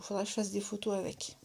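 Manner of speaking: whispered to herself, barely voiced; soft whispered note to self; whispered aside. Real, not acted. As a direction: breathe it as a private reminder.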